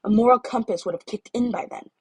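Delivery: a hint of a stern glaring girl. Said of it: "said with a glare".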